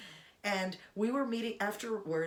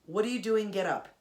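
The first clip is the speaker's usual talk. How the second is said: surprised; 5 dB louder than usual. Retold or imitated. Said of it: "The first thing I said was".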